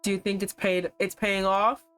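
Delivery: lightly voiced calm young man. Love interest deflecting about his meat diet, lightly voiced smooth man. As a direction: play him casual, hiding something.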